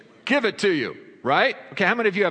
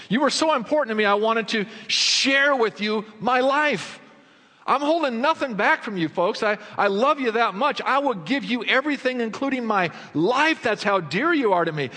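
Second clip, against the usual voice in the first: heartfelt Paul; 5 semitones higher than usual. Acted. Paul's love voiced to listeners.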